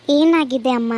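calm doctor greeting the patient; doctor asking. Acted. (ವೈದ್ಯರ ಧ್ವನಿ)

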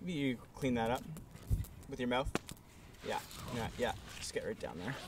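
quiet menace. Acted. Boss humiliating an employee.

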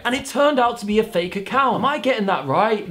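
badly faked British pop star accent. YouTuber reads AI reply, awful British accent impression. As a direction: attempt his British accent, poorly. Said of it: "This accent's awful".

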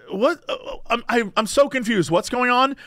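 gently baffled, trying to defuse it; defusing. Retold or imitated. Driver to angry stranger at a red light, placating. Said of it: "I was trying to be very, like, diffuse the situation-y".

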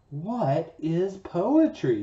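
slow, wondering question; lightly voiced curious boy; a hint of curious Daniel. Daniel asks, character line.

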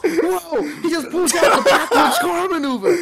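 high, loud, laughing hype; excited commentator. Pretend. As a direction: call it like a thrilled sportscaster. Hyped commentary on backwards maneuver.

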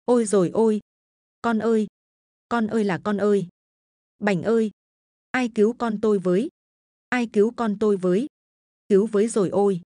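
put-on old mother wailing for help, sobbing; wailing cry. Mother crying over her fallen son, begging for help. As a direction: cry out desperately for someone to help. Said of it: "gào lớn".

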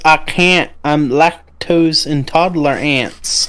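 lightly voiced kid, slow punchline; a hint of a kid, drawn out; ten-year-old kid. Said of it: "the kid just says".

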